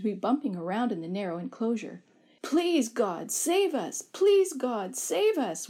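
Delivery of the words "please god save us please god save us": desperate scream. A narrator's reading. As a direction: scream the prayer up out of the well. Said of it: "we screamed".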